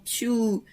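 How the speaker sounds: drawn-out falling "tchou"; flying swoosh. Pretend. Playing Superman flying the soup in, mimed swoosh. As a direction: mimic a hero zooming past.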